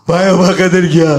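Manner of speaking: slow, loud wailing with a changed voice; crying boy. Retold or imitated. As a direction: sob out the bad news. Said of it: "वो रोते रोते बोल रहा है".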